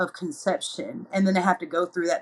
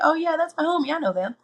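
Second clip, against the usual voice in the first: breezy and friendly; 10 semitones higher than usual. Pretend. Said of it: "you'll be like".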